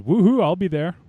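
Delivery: high, loud, excited whoop; excited Creepy Girl. Retold or imitated. Host relaying an excited listener's message, excited cheer. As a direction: whoop it up as an eager fan. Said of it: "Creepy Girl's excited".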